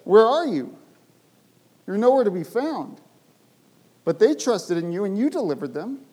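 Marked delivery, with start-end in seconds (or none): 0.0-3.0 pleading cry. Acted. Psalmist's pleading question.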